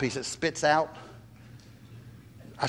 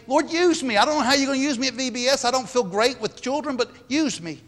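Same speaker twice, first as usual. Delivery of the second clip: humble prayer; 7 semitones higher than usual. Pretend. Voicing a humble prayer to God.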